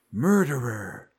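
lightly voiced, drawn-out accusation; accusing ghost woman. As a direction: draw it out like an accusing apparition.

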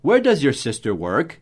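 teacher's question demo, "work" swung upward; English question intonation. Shown as a demonstration. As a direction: model the tune with a lift on "work". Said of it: "Essa entonação que a gente usa em inglês".

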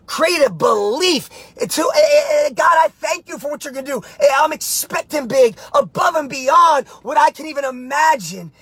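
rousing motivational preaching, pushing hard. Acted. Coach fires up his live viewers, rousing preaching. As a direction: fire up the viewers like a pastor.

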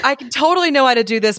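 high, fast fake confidence; overconfident employee voice. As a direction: rush the boast. Mimics boasting employee.

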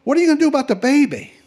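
high, fast question in a hippie's voice; hippie character. Acted. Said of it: "And then he says to me".

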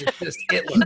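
Hitler with no H, "Itler"; dropped H. Shown as a demonstration. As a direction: drop the H in Hitler. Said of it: "We don't pronounce the H".

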